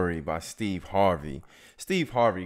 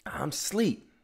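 sleepy whisper; 8 semitones higher than usual. Retold or imitated. Sleepy Steve on phone.

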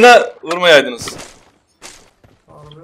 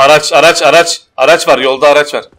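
calling out; 5 dB louder than usual. Real, not acted. Calling out an enemy vehicle.

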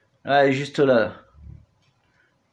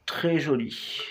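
soft unvoiced whisper; 13 dB quieter, slower than usual. Real, not acted. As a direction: whisper so as not to scare it. Filming moth up close.

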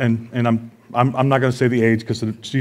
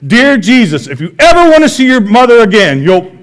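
put-on higher, louder little girl making a threat; mock-threatening child; 9 semitones higher, 6 dB louder than usual. Dad voicing his daughter threatening Jesus over Mary, high and loud. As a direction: play the kid holding Mary hostage.

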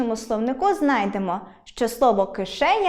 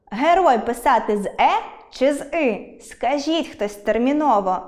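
poem recitation. Acted. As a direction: read it as a light mnemonic verse. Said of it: "маю для вас вірш". (декламування навчального вірша)

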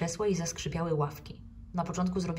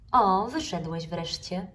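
smiling; 4 dB louder, slower than usual. Acted. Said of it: "powiedziała z uśmiechem".

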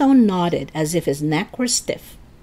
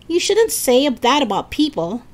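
higher-pitched reproach; squealed scolding; 6 semitones higher, 3 dB louder than usual. A narrator's reading. Lisa tells Eddie off, squealing mildly. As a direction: scold in a raised little voice. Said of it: "Lisa squealed".

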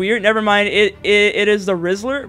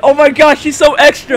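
normal talking voice

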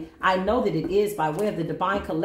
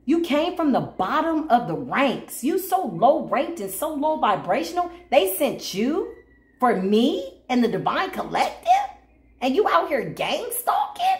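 mocking scold; 4 semitones higher than usual. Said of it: "I said".

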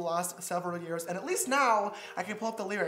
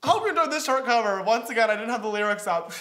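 mock sign-off; 5 dB louder than usual. Mockingly repeats own old sign-off.

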